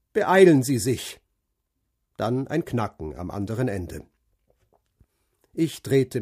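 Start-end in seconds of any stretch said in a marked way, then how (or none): 0.1-1.2 brisk metallic phone voice, louder; curt order down the line; ring modulator. A narrator's reading. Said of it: "Eine metallische Stimme, energisch und hellwach". (metallische, knappe Telefonstimme)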